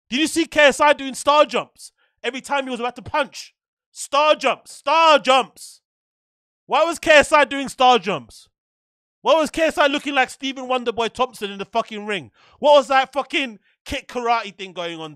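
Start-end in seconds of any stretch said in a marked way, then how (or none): 3.9-10.7 loud, high exasperated cries; incredulous outburst. Real, not acted. Streamer mocking a boxer's star jumps, incredulous and loud. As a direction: raise your voice in real disbelief.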